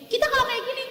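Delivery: high, bright demo voice showing the gesture; lightly acted Arab gesture for asking food. Shown as a demonstration. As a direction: lift the voice high to act out the sign.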